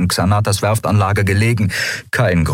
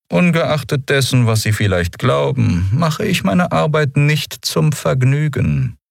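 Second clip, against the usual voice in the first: higher, measured officer's voice; cool Commodore; 8 semitones higher than usual. A narrator's reading. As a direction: speak as a composed official, pitched up.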